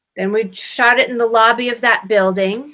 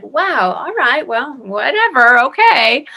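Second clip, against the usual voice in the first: shrugging it off; 4 semitones higher than usual. Retold or imitated. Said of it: "I was like".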